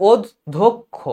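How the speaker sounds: অধ্যক্ষ in pieces as "od-dhok-kho"; syllable-by-syllable pronunciation. Shown as a demonstration. Teacher showing both clusters, syllable by syllable. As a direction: separate d from dh and k from kh in অধ্যক্ষ. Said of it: "এই দয় ধ উচ্চারণ হবে".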